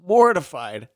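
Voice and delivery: high, loud and drawn-out mortification; mortified. Real, not acted. Storyteller confessing embarrassment to friend, mortified. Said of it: "I'm so mortified".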